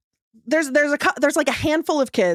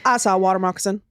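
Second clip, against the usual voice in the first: lightly voiced flat little boy, lower, quick; a hint of a stoic kid from the swamp, deadpan; mild imitation of an emotionless eight-year-old boy; Southern swamp boy; 5 semitones lower, faster than usual. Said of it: "impression of this boy".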